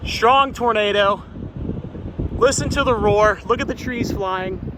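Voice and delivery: awestruck excitement. Real, not acted. Tornado close by.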